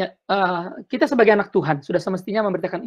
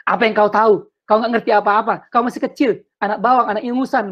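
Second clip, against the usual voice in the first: translated elder's scolding; 3 semitones higher than usual. Retold or imitated. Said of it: "Saya terjemahkan".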